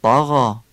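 طاغا with a heavy Arabic ط; eloquent emphatic ta. Shown as a demonstration. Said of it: "تای دسته دار رو فصیح بگید".

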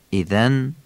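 ایذن with light tongue-tip "th" as in this; thin dhal. Shown as a demonstration. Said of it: "نوک زبانی نازکه".

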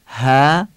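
"ه" as a light, long hae; thin ha. Shown as a demonstration. Teacher contrasts it with heavy saad, thin ha. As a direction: stretch "ه" with a thin front vowel. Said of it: "ه نازکه".

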